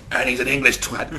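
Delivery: loud, laughing delivery; laughing punchline. Pretend. Finishing the devil joke for the interviewer, loud and laughing. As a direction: tag it on, cracking up.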